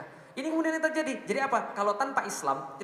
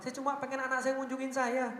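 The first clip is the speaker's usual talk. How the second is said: imitating crying parent; 4 semitones higher than usual. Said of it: "Dia nangis, dia bilang apa?".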